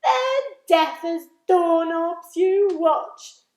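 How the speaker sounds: very high, loud laughing boast; roaring with laughter. Acted. Centipede mocking the cloud men, loud laughing. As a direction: laugh it off as a joke. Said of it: "roared with laughter".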